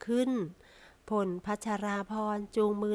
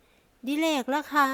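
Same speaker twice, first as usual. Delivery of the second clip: shy smile; 5 semitones higher, 5 dB louder, much slower than usual. A narrator's reading. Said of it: "แล้วยิ้มเอียงอาย".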